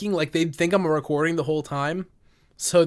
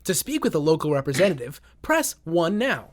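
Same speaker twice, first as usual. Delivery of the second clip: robot answering voice; 3 semitones higher than usual. Retold or imitated. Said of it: "sounding like a robot when you answer".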